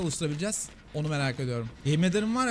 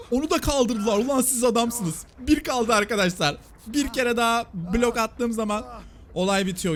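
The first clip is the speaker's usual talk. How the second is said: excited cheering; 5 semitones higher, 3 dB louder, slower than usual. Real, not acted. Cheering teammates' rescue in game.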